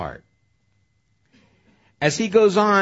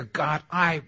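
raised, emphatic promise to God; sincere vow; 5 semitones higher, 5 dB louder than usual. Acted. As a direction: promise it earnestly, pitched up and forceful. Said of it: "And we're sincere".

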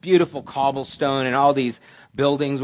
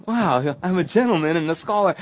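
higher, louder mock self-admiration; flattered pride; 5 semitones higher, 5 dB louder than usual. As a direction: marvel at yourself as the ego swells. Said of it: "the ego is rushing to my head".

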